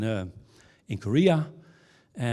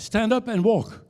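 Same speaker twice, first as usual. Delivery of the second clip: commanding Jesus; 8 semitones higher, 4 dB louder than usual. Retold or imitated. Jesus commands the paralyzed woman.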